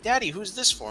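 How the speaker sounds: a dad voicing his little boy; imitating his son. A dad doing his son's question in a childlike voice.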